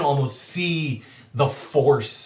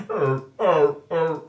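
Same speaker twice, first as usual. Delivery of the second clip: big wolf yelps. Acted. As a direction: imitate a horse-sized wolf whimpering. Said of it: "a wolf the size of the horse".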